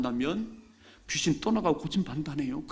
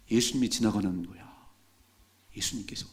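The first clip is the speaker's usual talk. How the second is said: hushed answer; 4 semitones lower than usual. Acted. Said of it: "그랬더니".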